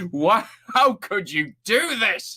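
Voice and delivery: high, slow wounded plea; mock anguish. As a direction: play it as betrayed anguish. Mock betrayal over folded page.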